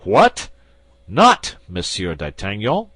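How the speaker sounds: loud, incredulous outburst; astonished exclamation. A narrator's reading. Commissary shocked at the prisoner, loud disbelief. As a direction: bark it out in disbelief. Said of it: "exclaimed the commissary".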